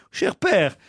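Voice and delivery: put-on Corsican accent. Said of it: "foiré les accents".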